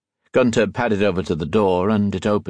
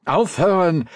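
high, firm German command; first sharp demand, pitched up; 9 semitones higher than usual. A narrator's reading. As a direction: order the dogs to stop. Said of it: "he demanded".

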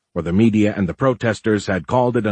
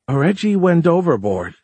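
laughing; 9 semitones higher, 4 dB louder than usual. A narrator's reading. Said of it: "she laughed".

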